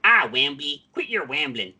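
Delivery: put-on puppet voice slipping into a Southern accent; badly done character voice with a Southern accent; attempted Canadian accent that comes out Southern; Gobo. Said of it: "That was a Southern accent".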